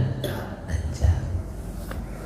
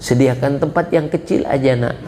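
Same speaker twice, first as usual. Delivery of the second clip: father's lament; 3 semitones lower than usual. Acted. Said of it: "kata beliau".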